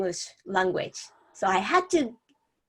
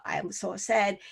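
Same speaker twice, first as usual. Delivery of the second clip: sad demo; 6 dB quieter than usual. Shown as a demonstration. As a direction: let the voice drop quiet and sad.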